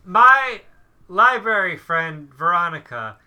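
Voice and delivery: booming loud announcer voice; fighting game announcer. Pretend. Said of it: "I don't know why we keep doing this announcer voice".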